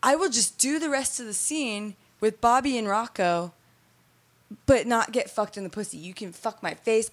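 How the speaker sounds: mildly pleading, pitched a little up; retold begging. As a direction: bargain with them, lightly re-enacted plea. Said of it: "begged them not to send me home".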